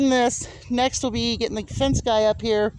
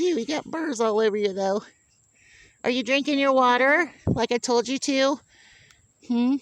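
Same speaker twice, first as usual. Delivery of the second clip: mock scolding pet talk. Real, not acted. Gently scolding goat.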